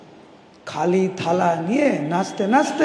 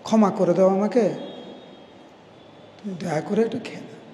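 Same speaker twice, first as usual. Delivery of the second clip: pleading; 6 dB quieter, faster than usual. Acted. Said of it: "আকুলভাবে ভগবানকে বলছেন".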